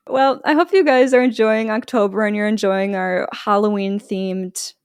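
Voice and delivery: light news anchor delivery. Real, not acted. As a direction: read it like a friendly local anchor. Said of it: "Why did I say it like I'm a news anchor?".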